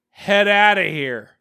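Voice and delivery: put-on child punchline. Punchline from six-year-old daughter.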